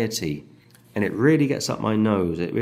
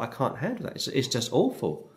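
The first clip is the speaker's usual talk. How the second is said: despairing thought; 2 semitones higher, 8 dB quieter than usual. Retold or imitated. David's despairing thought voiced.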